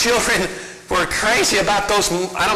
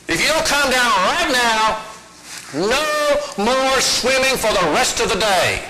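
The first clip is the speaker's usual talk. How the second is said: mother's warning, pitched a little up; half-serious playground threat, slow at the end; mild mock threat; 5 semitones higher, slower than usual. Mother threatens daughter on monkey bars, mildly stern. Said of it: "And her mama said".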